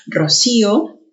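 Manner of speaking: rocío as ro-CÍ-o; stress on the í. Shown as a demonstration. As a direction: put the force on the í of rocío. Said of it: "se puede pronunciar con mayor intensidad".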